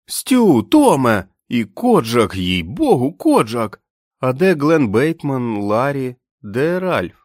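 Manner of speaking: high, loud and tumbling with joy; excited greeting. A narrator's reading. Billy greets Stu, Tom and the dog, high and loud with excitement. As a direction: greet them all at once, beside himself.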